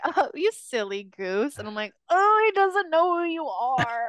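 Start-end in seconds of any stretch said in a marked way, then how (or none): 0.1-1.6 mock flirtatious, giggling, sweet voice. Retelling a woman flirting with a prince, imitating her giggly voice. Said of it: "She's like giggly".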